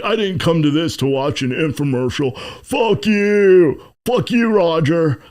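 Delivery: hammed-up Roger accent, stretching out the insult; Roger's accent. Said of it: "I said it in the, the Rogers accent".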